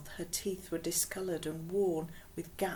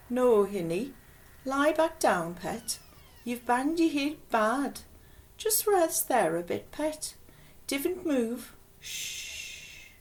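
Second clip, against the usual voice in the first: soothing Geordie woman, higher and louder; gentle Geordie accent; 6 semitones higher, 5 dB louder, slower than usual. Acted. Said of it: "gentle, soothing voice with a strong northern eastern tilt".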